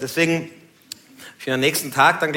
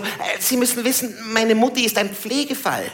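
lightly voiced neighbour, higher pitch; Stimme der Nachbarin; 7 semitones higher than usual. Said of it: "und meint so". (leicht nachgeahmte Nachbarin mit höherer Stimme)

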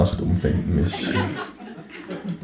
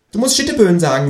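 high, louder kangaroo; kangaroo character voice; 12 semitones higher, 5 dB louder, faster than usual. A narrator's reading. Kangaroo coaching narrator in wordplay, high cartoon voice. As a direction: prompt like a cheeky talking kangaroo. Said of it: "sagt das Känguru".

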